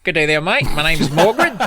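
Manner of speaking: overdone British that slips toward Australian; botched British accent. Acted. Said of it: "let's try to do British again".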